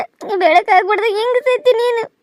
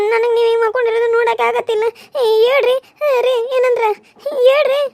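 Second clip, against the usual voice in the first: sobbing through a hurried plea; tearful pleading; 3 semitones higher than usual. Acted. Wife begging her motionless husband to speak, crying. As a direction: beg him to answer while crying.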